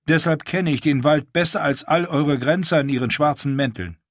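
a lightly voiced proud wildling woman; Val's voice.

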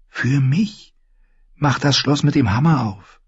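put-on high, urgent girl's voice; high-pitched, pressing demand; insistent girl. A narrator's reading. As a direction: order him about in a high young voice. Girl gives the boy orders.

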